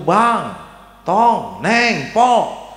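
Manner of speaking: high, drawn-out calls, name by name; calling out. Acted. Old friend phones grandmother's ten children, calling out. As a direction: call each child in turn, stretching the names.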